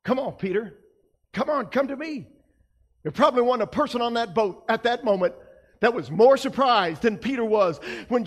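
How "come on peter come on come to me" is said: gentle invitation. Retold or imitated. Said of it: "and said".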